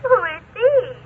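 put-on Spanish-accented lady on the phone; mild fake Spanish accent, sultry. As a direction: falso acento español, suave. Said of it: "speaks with a Spanish accent".

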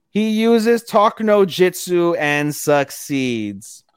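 slow, high, drawn-out proclamation; triumphant announcement. Real, not acted. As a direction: announce it like a big victory, stretching it out. Triumphant announcement of the plot twist.

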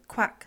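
a loud duck quack. Acted. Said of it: "said the ugly duckling".

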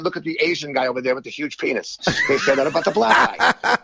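shouted punchline with laughter; stand-up shouting. Retold or imitated. Doing his stage joke, shouting it with a laugh. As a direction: belt it out like on stage. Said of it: "I literally do a joke where I say".

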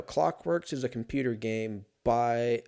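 ordinary talk, nothing marked

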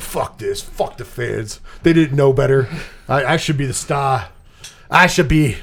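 a bad mock accent, dropped low, as Clint Howard; lightly voiced bitter Clint, unplaced accent; terrible put-on accent. Podcaster mocks Clint Howard as a bitter brother, bad accent. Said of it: "I gave him that terrible accent".

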